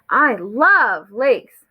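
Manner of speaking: slow, with love held long; stress on love. A narrator's reading. Froggy hears about the big lake, heavy emphasis on love. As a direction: punch love and draw it out. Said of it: "with more emphasis in our voice".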